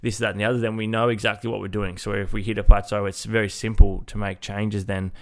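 blocked nose, nasal voice. Real, not acted. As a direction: talk through a stuffy nose. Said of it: "the nasally voice that you'll probably hear in today's episode".

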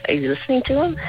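sharp high question; urgent question to husband. Retold or imitated. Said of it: "look over at my husband and say".

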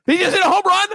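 high, baffled question; confused dad. Retold or imitated. Son imitating his dad puzzled by a replay. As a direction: sound like a dad fooled by an old clip. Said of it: "My dad go".

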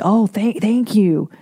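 mock-grateful gushing thanks; sarcastic overly polite thank-you; fake gratitude. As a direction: pretend to love a useless gift. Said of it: "you'd have to act like".

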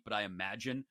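usual speaking voice

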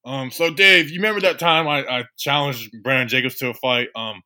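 lightly voiced tough-guy coach; a hint of a metal-singer coach; Mark Colombo. Coach drops in on Dave Gettleman in a skit, light impersonation. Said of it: "Bobby's impersonation of Mark Colombo".

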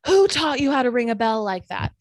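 loud, scolding yell; retelling the angry neighbor's scolding, loud yell; old man yelling. Retold or imitated. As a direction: bark the scolding at the careless girl. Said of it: "he yells".

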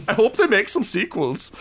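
laughing movie villain brag; villain taunt. Acted. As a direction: gloat over the wounded hero. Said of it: "and he's like".

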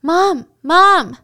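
loud, high cry of Mom; anguished retold scream for her mother. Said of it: "She was screaming".

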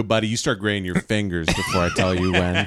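laughing while yelling a quote; laughing through a mock shout. Acted waiter quote, laughing.

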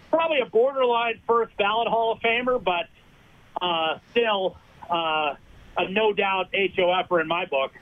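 breathless, talking between breaths; winded, pushing words out on little air. Real, not acted. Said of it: "asking why you're out of breath".

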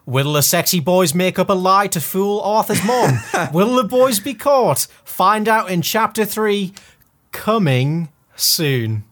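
high hammed-up cliffhanger tease; slowing to a big finish; dramatic announcer.

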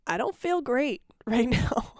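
slow, with a laugh breaking through. Real, not acted. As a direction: laugh through the admission of feeling bad. Host admits feeling unwell, laughing.

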